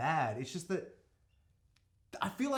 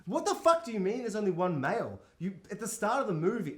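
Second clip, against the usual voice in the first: higher, louder disbelief; mock outraged yell; 6 semitones higher, 4 dB louder than usual. Viewer yelling at the film's claim, outraged. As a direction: shout back at the screen in disbelief. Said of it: "And I'm like".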